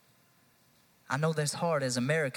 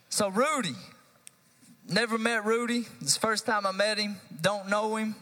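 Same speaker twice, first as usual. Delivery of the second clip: emphatic announcement; 5 semitones higher than usual. Real, not acted. Addressing the congregation emphatically.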